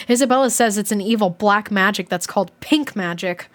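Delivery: animated diary read-aloud; expressive storybook reading with swooping tune; story narration. A narrator's reading. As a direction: read a kid's diary with lively emphasis.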